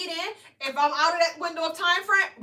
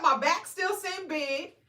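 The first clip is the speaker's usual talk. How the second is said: slow doubtful; 2 semitones higher, much slower than usual. Retold or imitated. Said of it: "I'm like".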